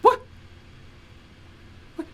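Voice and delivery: very high, tiny confused goblet; squeaky goblet voice. Acted. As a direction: squeak like a living cup. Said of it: "one of the goblets go".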